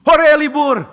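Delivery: shrieked high and loud with joy; a kid cheering at a day off; loud overjoyed whoop; delighted cheer. Acted. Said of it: "Anak itu kaget".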